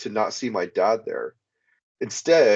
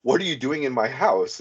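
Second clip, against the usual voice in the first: retold shocked question; 5 semitones higher than usual. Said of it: "in shock, I said".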